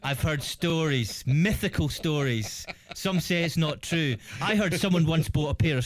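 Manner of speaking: joking that Canadian summer is legend; mock legend telling. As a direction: tell it like an ancient myth.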